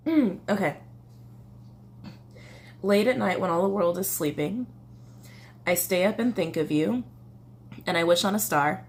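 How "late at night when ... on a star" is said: measured read-aloud with lifted line endings; lyric reading. Acted. Reading love song lyrics to viewers, measured recital. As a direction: read it like a verse, pausing between lines.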